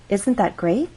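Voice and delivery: yes-or-no question, "great" gliding up; rising intonation. Shown as a demonstration. Teacher asking so listener will agree, rising intonation. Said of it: "we're using rising intonation".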